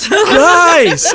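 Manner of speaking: very high, drawn-out holler; loud yell. A narrator's reading. Autumn tries to break up the argument, loud yell. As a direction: holler at the top of the voice. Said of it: "Autumn yelled again".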